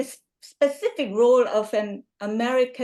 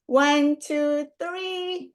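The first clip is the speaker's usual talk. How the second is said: drawn-out count, pitched up; higher, sing-out "one, two, three"; photo countdown; 3 semitones higher, much slower than usual. Real, not acted. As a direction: count everyone in for a group photo.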